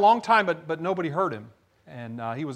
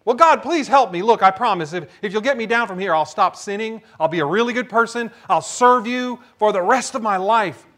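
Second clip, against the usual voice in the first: hurried, raised-voice bargaining; desperate pleading; 3 semitones higher, 4 dB louder than usual. Acted. Man on a cliff begs God for help, pleading. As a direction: plead urgently for your life.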